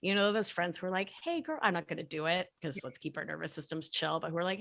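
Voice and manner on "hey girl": put-on a high, squeaky hey girl; shrill hey girl. Shown as a demonstration. Mocking shrill friends to listeners, high squeak. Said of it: "shrillness to the voice".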